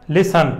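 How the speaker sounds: "ਲਿਸਨ" with the weight on its first syllable; stress on first syllable. Shown as a demonstration. Teacher demonstrating stress, first syllable of "ਲਿਸਨ" stressed. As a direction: hit the start of "ਲਿਸਨ", let the end drop. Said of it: "ਜ਼ੋਰ ਜ਼ਿਆਦੇ ਅੱਗੇ ਪੈ ਰਿਹਾ".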